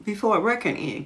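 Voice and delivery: high, curious questioning; puzzled wondering. Acted. Girl asking herself where they could go, high and puzzled. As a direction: ask it like you really can't imagine. Narrator wonders aloud in role.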